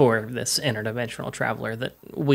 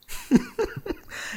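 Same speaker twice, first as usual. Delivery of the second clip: character's chuckle; 4 dB quieter than usual. Acted. Stranger amused by the questioning, soft acted chuckle. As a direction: chuckle softly to yourself in character. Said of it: "he chuckles".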